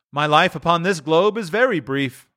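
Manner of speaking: high, grave spirit voice; ghost of Christmas Present. Acted. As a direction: voice the aging spirit. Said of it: "replied the ghost".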